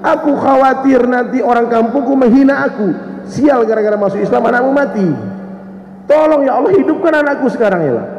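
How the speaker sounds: high, urgent pleading, lightly tearful; retold tearful plea. Bereaved mother begs Allah for her child, pleading. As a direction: imitate a distraught mother begging in prayer. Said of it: "Dia nangis".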